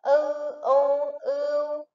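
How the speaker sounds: "ư u ưu" drawn out slowly, each sound separate; slow spelling drill. Shown as a demonstration. Teacher to young pupils, slow spelling drill. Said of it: "Các em hãy đánh vần theo cô".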